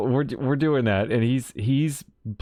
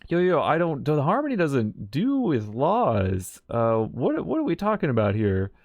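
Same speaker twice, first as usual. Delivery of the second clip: insistent pushback; 3 semitones higher than usual. Retold or imitated. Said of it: "Welt's like".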